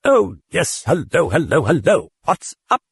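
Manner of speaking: high, chirpy cheerful voice; happy chatter. A narrator's reading. The thing greeting the priest happily. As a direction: bubble with glee. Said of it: "it said happily".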